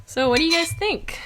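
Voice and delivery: talking with a mouthful of cereal; eating cereal. Real, not acted. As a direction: speak around a bite of cereal. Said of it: "I'm gonna finish my cereal".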